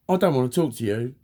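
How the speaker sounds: mildly fuming, re-enacted. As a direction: snap it out as a fed-up retort. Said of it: "I was fuming".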